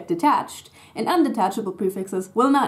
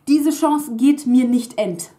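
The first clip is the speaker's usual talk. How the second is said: Diese Chance geht mir nicht ent said slowly and louder; slow hypothetical form; 3 semitones higher, 6 dB louder, slower than usual. Shown as a demonstration. Teacher showing the wrong detached form, slow. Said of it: "if this was a detachable prefix".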